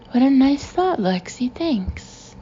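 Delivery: bright lift on the opening, softening on thanks; imagined delighted thanks. Acted. Coworkers thanking Lexi for the treat, delighted.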